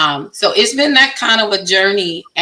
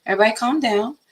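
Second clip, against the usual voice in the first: calm reassuring; 2 semitones higher than usual. Retold or imitated. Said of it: "I'm like".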